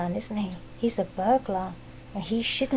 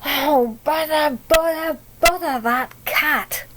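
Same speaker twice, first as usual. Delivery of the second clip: loud, higher, fed up; exasperated; 4 semitones higher, 4 dB louder than usual. Acted. Parents woken at night, loud and exasperated. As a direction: huff it out, louder each bother. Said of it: "Mister and Missus Thomas said".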